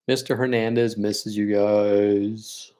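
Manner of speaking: holding back tears, slowly and softly; near tears, slow and soft. Real, not acted. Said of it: "I'm gonna start crying".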